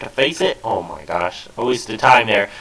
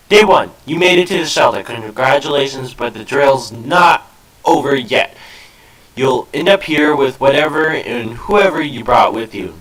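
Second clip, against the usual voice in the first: brisk, slightly raised army general; general's voice. Acted. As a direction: read it like a drill commander. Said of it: "doing the general's voice".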